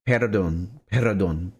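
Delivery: "perdón" with an extra vowel after the R; incorrect pronunciation. Shown as a demonstration. Speaker repeating their own mistake, "perdón" with an added uh. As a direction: break "perdón" into pe-ra-don. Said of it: "incorrectly, I say".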